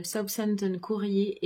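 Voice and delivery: slow, careful English accent on the name; English accent attempt. Shown as a demonstration. Booktuber reads another English title in a careful English accent. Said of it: "Désolée pour mon accent".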